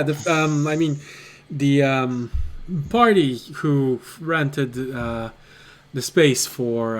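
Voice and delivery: lightly voiced sleepy innkeeper, slow and halting; a touch groggy, sighing between hesitant phrases. Innkeeper woken at night by pounding on the door, slightly groggy. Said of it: "slightly groggy".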